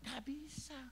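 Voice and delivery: hushed, high little protest; meek refusal. Retold or imitated. Congregation refusing to jump off a hill, meek refusal. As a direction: back out timidly, barely voiced.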